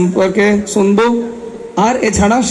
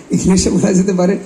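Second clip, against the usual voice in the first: laughing. Real, not acted. Laughs at own odd word choice.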